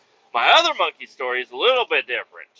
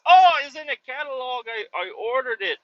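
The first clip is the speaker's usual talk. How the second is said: Amish guy voice; 11 semitones higher, 4 dB louder than usual. Retold or imitated. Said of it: "He's like".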